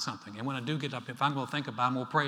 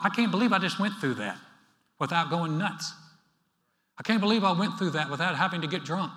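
relieved amazement; 4 semitones higher, 6 dB louder than usual. Retold or imitated. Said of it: "Ever thought".

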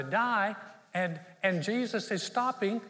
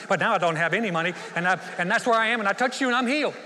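fast, chatty, getting louder and more breathless; hammed-up long-winded confession building to a loud finish; rambling woman; 5 dB louder, faster than usual. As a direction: gush out the whole story. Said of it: "when y'all tell the whole truth".

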